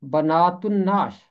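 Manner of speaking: बनातुन नाश with the ल silent and a doubled न: बनातुन्नाश; teacher shows the ल silent in बनातुन नाश; model pronunciation. Shown as a demonstration. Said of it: "यहाँ इसका तलफ़ुज़ होगा".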